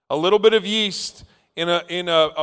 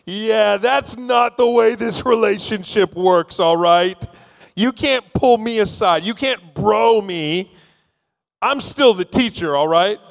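mild rebuke; 4 semitones higher than usual. Acted. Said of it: "and then he rebukes Peter".

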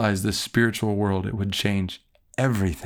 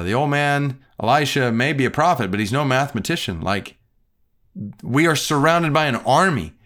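mock exasperation; 4 semitones higher than usual. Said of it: "he's probably thinking".

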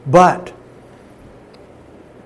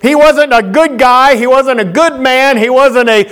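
forceful preaching; 3 semitones higher than usual. Acted. Preacher driving home his point to the church, forceful. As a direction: preach it out to the congregation.

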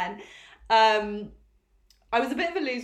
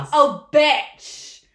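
delighted gasp; 5 semitones higher, 11 dB louder than usual. Real, not acted. Gasps at compliment.

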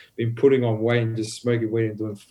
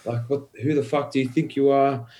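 higher-pitched indignant retort; retold mouthing-off, pitched up without shouting; 3 semitones higher than usual. Telling how he challenged the cop, mouthing off. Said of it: "I was mouthing him off".

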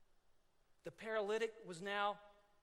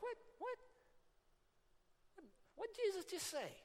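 astonished; 10 semitones higher, 5 dB quieter than usual. Retold or imitated. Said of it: "people are like".

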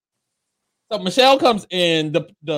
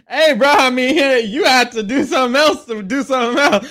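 laughing mock quote; 4 semitones higher, 4 dB louder than usual. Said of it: "He's like".

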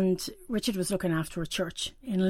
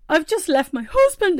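through sobs; 9 semitones higher, 7 dB louder than usual. Retold or imitated. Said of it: "through my sobs".

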